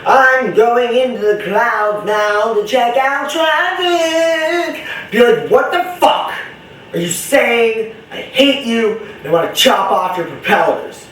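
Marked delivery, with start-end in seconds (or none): 0.0-4.8 high, singsong Scandinavian caricature; hammed-up Scandinavian accent, climbing into a long squeal; mock Scandinavian accent. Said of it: "Sound like some Scandinavian chick on crack". 5.5-11.1 high, exasperated mock rant; hammed-up indignation, settling toward the end; mock-annoyed. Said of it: "would piss me off".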